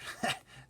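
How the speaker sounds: roaring laugh. Acted. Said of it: "roared with laughter".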